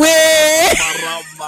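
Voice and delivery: excited shout. Real, not acted. Gleeful recognition of sister's voice.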